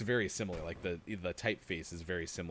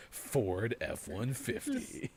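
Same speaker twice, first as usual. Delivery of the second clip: imitated truck-ad voice; 2 semitones higher, much slower than usual. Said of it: "Okay, now say Chevy Silverado".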